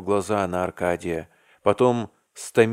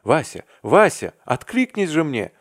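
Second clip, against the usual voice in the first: loud desperate calling out, high; shout; 8 semitones higher, 7 dB louder than usual. A narrator's reading. Arkady shouts to Vasya to answer him, loud and desperate. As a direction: cry out to a friend who won't answer. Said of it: "закричал он".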